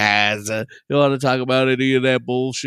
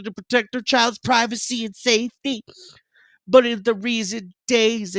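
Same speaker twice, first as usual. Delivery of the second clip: mock statement read; 7 semitones higher than usual. Reading statement aloud.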